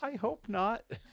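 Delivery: put-on very high, tiny little girl voice. Retelling the reply from someone inside a plantain costume, in a tiny little girl voice. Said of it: "came this tiny little girl voice that said".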